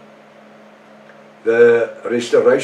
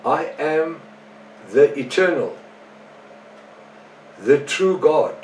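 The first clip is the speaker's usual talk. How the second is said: slow, higher-pitched scripture reading with pauses; deliberate reading; 4 semitones higher than usual. Real, not acted. Preacher first reading the Moffat Bible verse, slow and deliberate. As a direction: read it out slowly, phrase by phrase.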